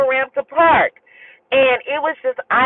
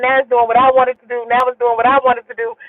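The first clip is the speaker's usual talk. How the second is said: calm, everyday-pitched retold assurance; unfazed; faster than usual. Driver reassuring passenger that he has it, calm. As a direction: imitate someone totally untroubled. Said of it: "he never freaked out".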